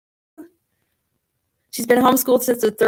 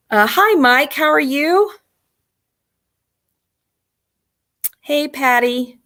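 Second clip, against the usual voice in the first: crackling, cutting-out mic; crackly usb mic; 5 semitones higher, 3 dB louder than usual. Real, not acted. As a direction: voice through a crackling microphone. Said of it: "My mic is crackling pretty bad".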